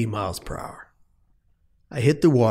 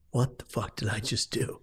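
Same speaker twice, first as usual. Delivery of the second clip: stunned inner panic; 2 semitones lower, 10 dB quieter than usual. Retold or imitated. Panicked thought during the fall.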